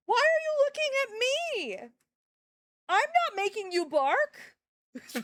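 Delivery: high slow doggy talk. Real, not acted. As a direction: coo at the dog. Talking to her dog.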